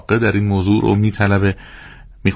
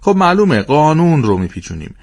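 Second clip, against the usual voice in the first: higher, louder quick answer; lightly voiced eager child; 6 semitones higher, 3 dB louder than usual. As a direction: blurt it out proudly. Child repeats father's answer eagerly.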